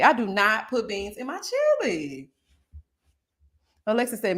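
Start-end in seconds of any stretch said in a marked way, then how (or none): 0.0-2.3 slow, deliberate "I do not put beans in my chili"; firm, slowed insistence; slow emphasis. Shown as a demonstration. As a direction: lay it down word by word. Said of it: "Beans do not belong".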